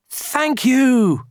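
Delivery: high-pitched storybook thanks; grateful. A narrator's reading. Villagers thanking their helper, grateful.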